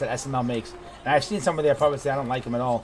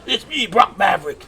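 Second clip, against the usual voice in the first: higher, louder puppet pilot voice; Brock Maverick voice; 5 semitones higher, 4 dB louder than usual. Acted. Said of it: "I hurt my voice to do it sometimes".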